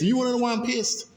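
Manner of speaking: real anger rising into a fast, high challenge; real heated challenge. Real, not acted. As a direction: throw the question at them, worked up. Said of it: "'cause I'm pissed right now".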